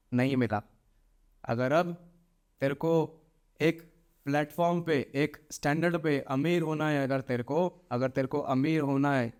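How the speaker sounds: a lightly voiced demanding spirit; a hint of a looming entity; menacing spirit. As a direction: speak as a spirit claiming a debt. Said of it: "एकदम धुएं में आएगी".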